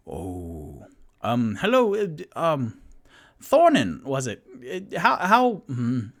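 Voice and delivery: flustered, stammering high voice; nervous Toot Toot. Acted. Toot Toot greeting the thug Thornin, high and flustered. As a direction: fumble the words like a nervous little fellow.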